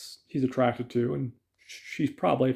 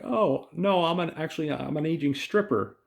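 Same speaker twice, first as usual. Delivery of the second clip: higher-pitched, mock-innocent retort; defiant comeback; 5 semitones higher than usual. Ella responds back to April's dig, defiant. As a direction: imitate a woman firing back, pitched up. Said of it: "not to take any shit from anyone".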